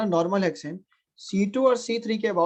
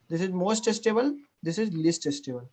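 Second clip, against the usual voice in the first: slow dictation; 3 dB quieter, much slower than usual. Real, not acted. Teacher dictating the answer.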